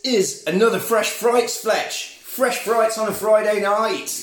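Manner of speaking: theatrical late-night horror host welcome. Acted. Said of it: "Is that your horror host voice?".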